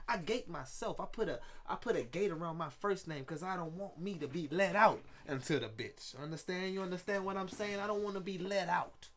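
a light take on a rapper, cocky and rambling; rapper impression. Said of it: "How was my rapper impression".

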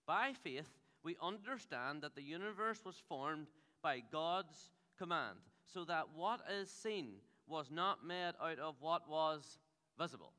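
slow, measured Bible reading; scripture reading. Acted. Pastor reading Hebrews to the church, slow and measured. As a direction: read each word of the verse with weight.

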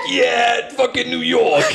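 high, bad American accent from a Brit; a Brit proudly faking New York; Brit doing American. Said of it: "He was like".

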